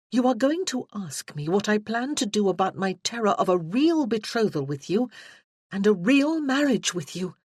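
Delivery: a hint of a worried fiancée; Freya's voice. Freya explains her doubt to Josh, lightly voiced and anxious.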